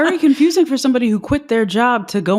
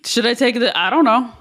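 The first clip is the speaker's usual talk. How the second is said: playing dumb; 3 semitones higher, faster than usual. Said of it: "Play dumb".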